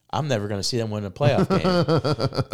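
high, loud, laughing lament; loud laughing moan of a beaten fan; laughing despair. Retold or imitated. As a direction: laugh through the hopelessness. Despairing fan retelling loss.

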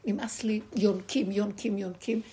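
acted outcry of being fed up; imitated cry of protest. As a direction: cry out in protest as the mother of all life. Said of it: "אם כל חי צועק".

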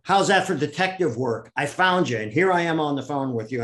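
boastful excitement. Retold or imitated. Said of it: "And he said".

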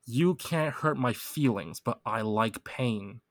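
very slow, spaced-out repeat; slow lyric read. Shown as a demonstration. Repeating the lyric for a stuck friend, very slow. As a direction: drag each word out for them. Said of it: "the lyrics".

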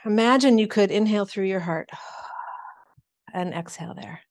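breathy whispered breathing cue. Real, not acted. Meditation guide to an online group, whispered.

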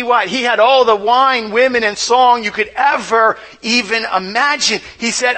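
ordinary delivery

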